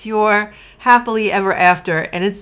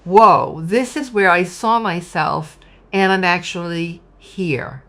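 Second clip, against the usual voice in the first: amazed; 4 dB louder than usual. Retold or imitated. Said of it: "you're at this position where you're like".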